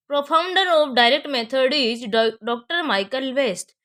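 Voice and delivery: very slow, word by word for notes; slow dictation. Shown as a demonstration. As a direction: spell it out for students to write. Teacher dictating key answer. (बहुत धीरे, लिखवाते हुए)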